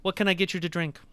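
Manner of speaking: high, creaky greedy waiter voice; creaky greedy chomping chest. Acted.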